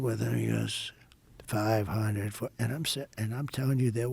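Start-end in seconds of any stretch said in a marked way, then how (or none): 1.5-2.5 slow, drawn-out altitude callout; lightly imitated cockpit computer. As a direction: stretch it out like an automated countdown. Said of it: "It's a computer voice".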